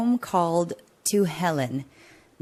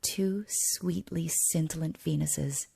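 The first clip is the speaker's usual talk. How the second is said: poem as monologue. Acted. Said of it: "more like a monologue".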